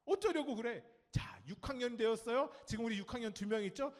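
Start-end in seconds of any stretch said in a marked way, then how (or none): 0.0-0.8 high, loud mock scolding; nagging parent. Parent to a fifth-grader, mock nagging. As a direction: imitate an exasperated parent. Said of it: "그때 이런 소리 들어요".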